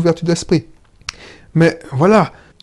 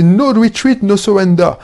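put-on thick French accent; 4 semitones higher than usual. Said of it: "mon accent à couper au couteau".

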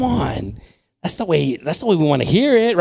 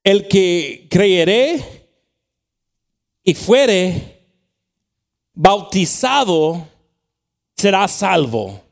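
slow Spanish reading, broken phrase by phrase; slow scripture reading; 4 semitones higher, 5 dB louder, much slower than usual. Real, not acted. Preacher reading Mark to the church in Spanish, slow scripture reading. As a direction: read it out deliberately, pausing after each phrase. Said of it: "I'll read it slow so I can understand it".

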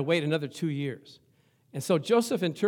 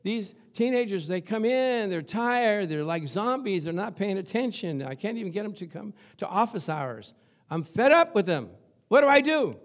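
fed up complaint; 4 semitones higher, 5 dB louder than usual. Retold or imitated. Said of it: "she said".

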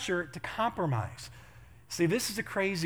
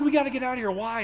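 high, louder retold panic; mock urgency; 8 semitones higher, 5 dB louder than usual. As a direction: hurry a friend out in mock alarm.

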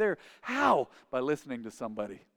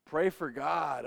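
put-on mumbling drunk; much slower than usual. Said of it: "He was like".

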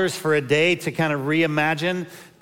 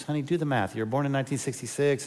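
soft patient correction; 5 dB quieter, faster than usual. Retold or imitated. Wife corrects him gently.

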